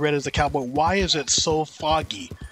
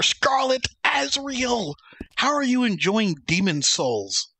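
whisper; 8 semitones higher, slower than usual. Real, not acted. Greeting chatter in whisper.

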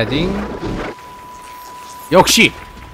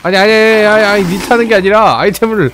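frustrated; 4 semitones higher, 4 dB louder than usual. Real, not acted. Frustrated at game controls.

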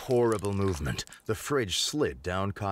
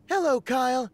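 higher sweet TV guest; 12 semitones higher than usual. Acted. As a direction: play the glamorous guest. Rachel answers on set.

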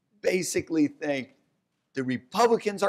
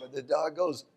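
ordinary talk

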